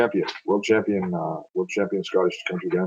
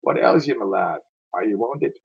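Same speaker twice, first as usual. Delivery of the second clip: calling out; 3 semitones higher, 6 dB louder, slower than usual. Acted. Calling to a fallen soldier.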